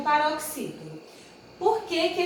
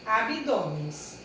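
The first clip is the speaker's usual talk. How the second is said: slow plural; 3 semitones lower, slower than usual. Shown as a demonstration. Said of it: "acrescentamos N S".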